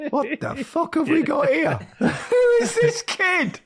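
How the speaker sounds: high, incredulous laughing aside; stunned whisper-aside to Robson, half laughing; shocked aside. Retold or imitated. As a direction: gasp at the kid in disbelief. Retold shocked aside at dinner.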